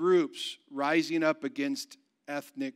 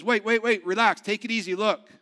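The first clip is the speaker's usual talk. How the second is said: urgent calming; 4 semitones higher, 5 dB louder than usual. Acted. Father calms his panicking family.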